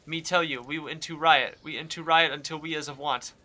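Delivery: a lightly voiced cabbage with broken grammar; silly cabbage voice. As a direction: play the cabbage stubborn about its riot. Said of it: "Why do they talk like that?".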